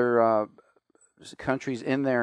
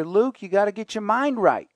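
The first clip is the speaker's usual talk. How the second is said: put-on Texas accent; 6 semitones higher than usual. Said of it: "And he would say".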